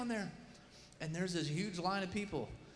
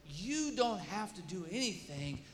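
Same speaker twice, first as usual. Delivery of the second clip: imitating a firm rebuke, building louder; 5 dB louder than usual. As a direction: lay it on them, louder as you go. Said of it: "this guy's rebuking me".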